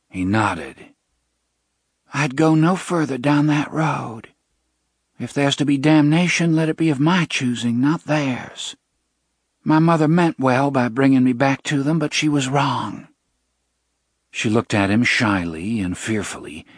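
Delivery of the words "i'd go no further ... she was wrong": put-on young woman voice. Jenna resolves.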